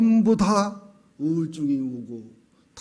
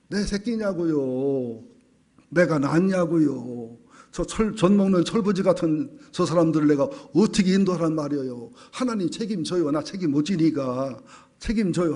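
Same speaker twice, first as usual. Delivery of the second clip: defiant talking back. Acted. Moses refusing to carry the people, mildly defiant talking back. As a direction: talk back to God in a lightly acted protest. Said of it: "하고 대드는 거예요".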